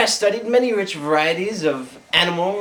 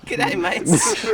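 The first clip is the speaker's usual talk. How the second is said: whispered Australian greeting; 3 semitones lower than usual. Acted. Retries greeting.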